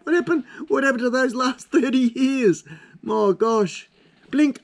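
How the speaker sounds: mock despair. Mock despair at his age.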